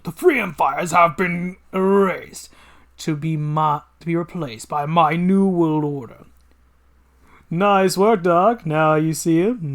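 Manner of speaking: gloating evil genius, slow and grand; villain voice. Acted. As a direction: savour every word like a mad scientist.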